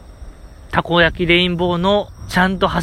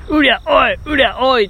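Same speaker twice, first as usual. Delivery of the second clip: spirited call; 7 semitones higher than usual. Retold or imitated. Idol member leading the crowd call, high spirited shout. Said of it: "威勢よく言って".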